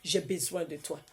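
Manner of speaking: pleading prayer voice; fervent prayer. Acted. Preacher leading the listeners in fervent prayer. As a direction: cry out to the Father.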